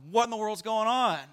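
high, loud alarmed question; panicked disbelief at the room; whispered panic turned loud; freaking out. Retold or imitated. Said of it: "We're, like, freaking out".

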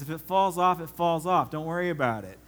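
dad's offhand reply. Retold or imitated. Dad waving off his son's warning, breezy and loud. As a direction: toss it off like an unbothered dad. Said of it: "He says".

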